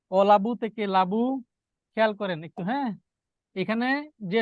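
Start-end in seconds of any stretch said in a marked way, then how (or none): 0.1-1.2 slow অলাবু with opening o, then লাবু without it; drawn-out contrast, o-la-bu then la-bu in লাবু; dropped vowel. Shown as a demonstration. Teacher shows class the lost first vowel, slow অলাবু-to-লাবু demo. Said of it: "এই অটা এখানে নাই".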